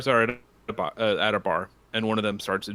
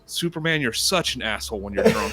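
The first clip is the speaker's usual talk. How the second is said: higher, fed-up punchline voice; exasperated bartender; 8 semitones higher, 4 dB louder than usual. Retold or imitated. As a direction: scold him as the bartender.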